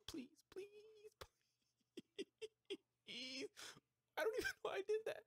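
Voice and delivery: high, whimpering mock begging; mock crying plea. Pinned in the wrestling game, mock sobbing for mercy. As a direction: beg like you're about to cry, hammed up.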